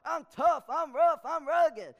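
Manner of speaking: put-on loud, chest-out boast of a tough country boy; boastful brag. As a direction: puff up and brag loudly.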